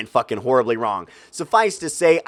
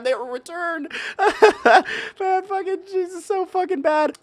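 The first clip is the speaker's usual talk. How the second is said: laughing squeal; 4 dB quieter than usual. Real, not acted. Cracking up at own joke.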